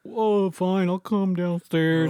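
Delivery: slow, reluctant imitation of a drowsy boy; sleepy kid. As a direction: drag it out like a kid just woken up. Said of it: "all sleepy shit".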